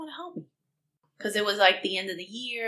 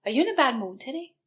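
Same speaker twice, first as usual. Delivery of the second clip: calmly; 6 semitones higher, faster than usual. Retold or imitated. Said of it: "I said to him very calmly".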